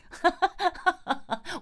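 short high burst of laughter. Real, not acted. Laughing at herself for being petty, high laugh. Laughing at her own pettiness.

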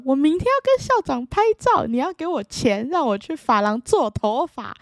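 put-on high, loud kid insisting to mom; shouting to mom about the photo with the principal; loud childish demand. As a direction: belt it out like an excited kid. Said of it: "非常非常非常大声的讲".

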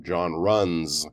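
runs with a clear S on the end; John runs, the verb ending in an audible S; final S pronounced. Shown as a demonstration. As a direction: hold the closing S of runs. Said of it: "Definitely need those S's on the end".

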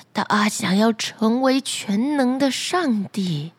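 put-on slow, faltering old man; hesitant fisherman. Fisherman reluctantly telling the flounder, slow and faltering. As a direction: stammer it out reluctantly.

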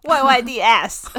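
slow, emphatic mainland-style Y Y D S; drawn-out mainland fan slang; mainland Chinese accent. Shown as a demonstration. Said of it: "中国的口音才有那个气口".

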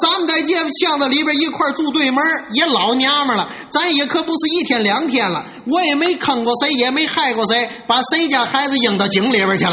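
fast, indignant self-defence; flustered, worked up. Acted. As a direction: rattle off an aggrieved protest. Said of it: "他可急了".

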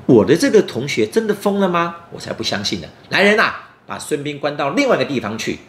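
sneer, then bark the order; suspicious villain. Acted. Pang Juan doubts, orders guards. (庞涓怀疑地下令)

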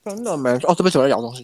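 talking while chewing; mouth full. Real, not acted. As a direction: say it through a mouthful of noodles.

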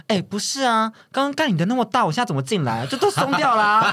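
retelling the masseur's refusal, mock voice; mock masseur complaining. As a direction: play the masseur, half laughing. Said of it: "那个师傅就说".

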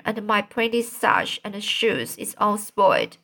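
put-on a small girl complaining breathlessly; little girl voice. Dora tells of falling in pigpen.

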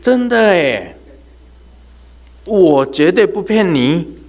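高声大声、放慢地强调; 用力向听众担保是真的; 激动保证. Real, not acted. 强调自己不骗听众. (高亢放慢地激动保证)

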